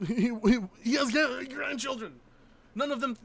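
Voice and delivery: high, loud laughing stammer; real laughing shock; laughing disbelief. Real, not acted. Laughing at grandchildren claim.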